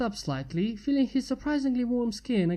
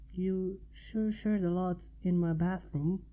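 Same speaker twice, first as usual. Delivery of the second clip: softer, muttered under her breath; a quiet teasing mumble; mumbled; 5 dB quieter than usual. Acted. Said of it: "she mumbled".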